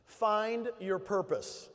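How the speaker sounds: very slow, each word weighted; drawn-out Find your purpose; slow emphatic. Real, not acted. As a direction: drive the point home slowly. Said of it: "You might wanna take some notes".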